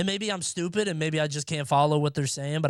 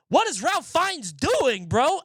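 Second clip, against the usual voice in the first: incredulous; 10 semitones higher, slower than usual. Retold or imitated. Streamer recalling a baffling movie scene, slow incredulous. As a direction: drag it out in pure disbelief. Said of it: "reacting to movie scene".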